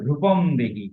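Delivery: রূপম দেহি with drawn-out "ruu"; measured recitation of রূপম দেহি, vowels held; long vowels. Shown as a demonstration. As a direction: stretch the u of রূপম, then fall on দেহি. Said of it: "দীর্ঘ করে উচ্চারণ করতে হবে".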